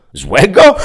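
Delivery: high, loud mocking question; mocking echo. A narrator's reading. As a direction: savour the word with scorn. Interpreter mocks the word. (wysokie, drwiące powtórzenie)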